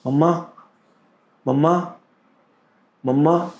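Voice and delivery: put-on high, rising call of a child; child calling mama. Retelling the boy's call, a high rising mama. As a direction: call out for mother like a dying child.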